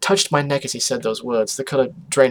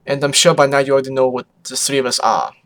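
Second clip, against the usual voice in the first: put-on louder, rough foreign accent; Photo Finish; 5 dB louder than usual. Revealing the family secret, rough put-on accent. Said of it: "Her accent was rough".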